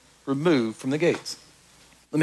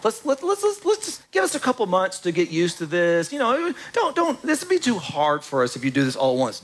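mock whining. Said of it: "the people whining like".

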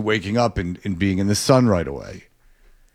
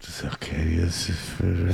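quick, softer mumbled imitation; mimicked radio request; 3 semitones lower, 6 dB quieter, faster than usual. Echoing a clip of Sarge, quick mimicry. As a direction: parrot it fast and soft. Echoing the played clip's line.

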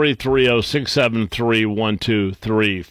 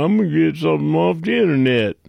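mock excited; 4 semitones higher, much faster than usual. Host mocking seniors who get excited over internet deals, quick and eager. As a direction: play the giddy bargain hunter. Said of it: "get all excited and go".

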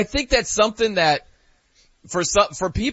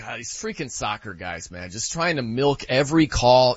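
eye-rolling dismissal; 5 semitones lower than usual. Retold or imitated. Viewer watching an injured player, dismissive grumble. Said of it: "I rolled my eyes and I'm like".

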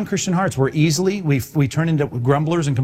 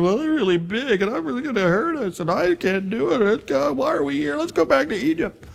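whiny Israelite wanting Egypt back; whiny complainer; 9 semitones higher than usual. Retold or imitated. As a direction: whimper it like a scared grumbler. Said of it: "They were whiners and complainers".

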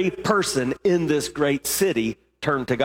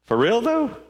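incredulous challenge; 9 semitones higher than usual. Pretend. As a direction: ask it like you can't believe it. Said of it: "It, it could have been".

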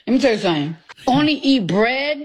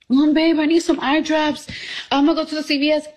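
lightly played girlfriend, pitched higher; mock excuse; 4 semitones higher than usual. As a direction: casually fake an excuse to a boyfriend.

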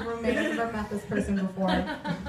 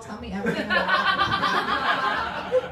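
gushing friend; 3 semitones higher, slower than usual. Retold or imitated. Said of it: "everyone's like".

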